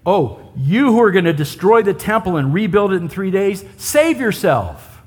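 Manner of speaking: a touch of sneering sarcasm, slowing on the last words; mild mocking jeer. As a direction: tease him lightly like a heckler at the cross. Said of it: "can you sense the sarcasm, the mocking?".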